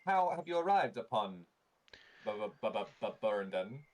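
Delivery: stuttering tinny robot; glitchy automaton, stuck on Bu; metallic voice filter. Acted. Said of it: "tinny, metallic voice".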